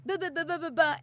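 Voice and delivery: high mock rant into babble. Wife ranting at husband at home, mock worked-up. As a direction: rattle on in an exasperated tirade. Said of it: "Like you're five years old".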